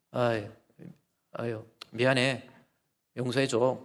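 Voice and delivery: a hint of a sheepish husband brushing it off; lightly voiced husband mumbling a quick sorry; offhand apology. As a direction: toss off the apology lightly, like it's nothing.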